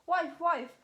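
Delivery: loud call to his wife; a startled giant's call, loud. Acted. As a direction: call across the house for the hen. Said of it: "wake up and call out".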